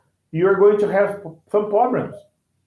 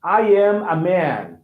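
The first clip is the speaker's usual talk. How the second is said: I am a man said slowly, every word clear; slow teaching delivery; slow careful sentence; slower than usual. Shown as a demonstration. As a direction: spell it out slowly. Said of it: "the difference between".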